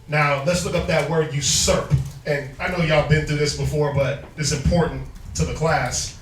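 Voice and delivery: stuffy nose, nasal tone. Real, not acted. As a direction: talk through a blocked nose. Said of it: "If I sound nasally".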